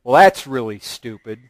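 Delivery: mild mock scorn at her husband; lightly mocking contempt. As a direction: toss off the insult. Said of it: "submission doesn't come up to him and say".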